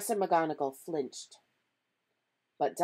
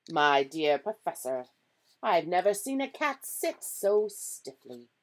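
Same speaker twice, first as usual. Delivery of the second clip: put-on louder, amused old professor; projected character voice, lightly done; lightly voiced Dumbledore; 2 semitones higher, 7 dB louder than usual. A narrator's reading. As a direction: lightly play the wizard professor, louder than narration.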